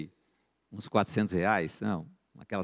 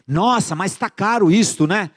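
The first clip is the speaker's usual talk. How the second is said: high, loud, drawn-out customer's protest; mock astonishment; 8 semitones higher, 6 dB louder, slower than usual. Customer balking at the seller's price, mock astonished. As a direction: balk at the price, playing it up.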